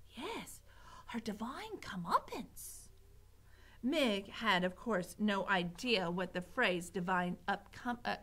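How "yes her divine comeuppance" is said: slow, hushed, high-lilting echo; whispering. A narrator's reading. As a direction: repeat it softly, savouring the sound. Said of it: "whispered Mig".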